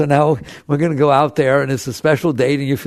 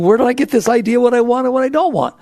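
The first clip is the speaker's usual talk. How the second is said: questioning; 9 semitones higher, 4 dB louder, faster than usual. Retold or imitated. People questioning their wants.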